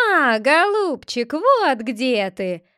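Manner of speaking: slow, bleating ram voice; bleating ram's head. A narrator's reading. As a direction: bleat each word like a ram. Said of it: "заблеяла баранья голова".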